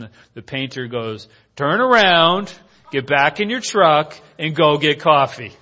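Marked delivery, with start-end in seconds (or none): 1.6-5.5 loud opening, easing into firm command; mock-stern raised voice; imitated firm order. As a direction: send him straight back, imitating a boss. Painter ordering coworker back to truck.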